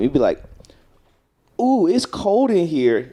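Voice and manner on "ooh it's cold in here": higher, slow drawn-out ooh; DJ drop line. Shown as a demonstration. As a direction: stretch the ooh like a radio drop. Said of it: "You gotta get a girl to do that one".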